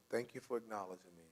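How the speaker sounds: soft, low relieved thanks; quietly grateful, settling down; calmed down. Acted. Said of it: "They calm down a little bit".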